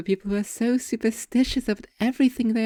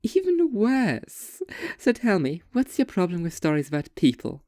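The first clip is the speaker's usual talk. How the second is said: mock dismay. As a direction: stretch it in mock horror. Waitress reacts to age.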